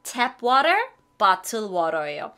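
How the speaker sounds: 탭 워터 and bottle water, slowly drawn out; teacher's slow model: "bottle water" stretched; clear English words. Shown as a demonstration. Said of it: "워터에도 두 가지 종류가 있어요". (천천히 또박또박 발음 시범)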